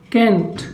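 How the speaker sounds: can't said as "kent"; can't with a short e vowel; saying can't. Shown as a demonstration. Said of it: "तो ये कहलाएगा".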